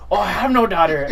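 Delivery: high, loud, laughing aside; laughing realization. Retold or imitated. Caller admits laughing he has no daughter. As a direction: laugh at his own mix-up.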